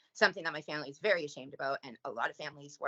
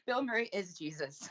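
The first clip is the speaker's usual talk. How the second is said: a gasp, then the name said high with delight; thrilled, pitch jumping up on Bill; 6 semitones higher than usual. Real, not acted. Delighted gasp at friend's tattoo.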